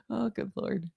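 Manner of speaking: ordinary talk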